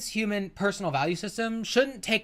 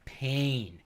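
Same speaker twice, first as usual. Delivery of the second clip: mock anguish; 5 semitones lower, 6 dB quieter, slower than usual. Real, not acted. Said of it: "it's all coming back to me".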